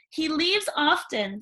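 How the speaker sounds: put-on dreamy young Cindy; lightly voiced chatty girl.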